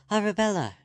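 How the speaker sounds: high, loud call to the window. Acted. Girl calling up to Arabella at the window, loud call. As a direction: call up to her friend above. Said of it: "she called".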